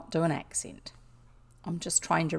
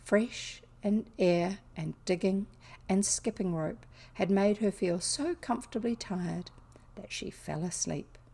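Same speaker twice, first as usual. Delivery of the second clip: story narration. A narrator's reading. Narrator ends chapter as tired girl falls asleep, softening story narration. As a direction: let the chapter settle gently to its close. Reads a novel aloud.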